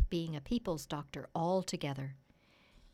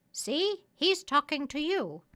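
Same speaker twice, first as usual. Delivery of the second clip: high-pitched parrot voice; explaining parrot; 8 semitones higher, 5 dB louder than usual. Acted. Parrot points out the dog.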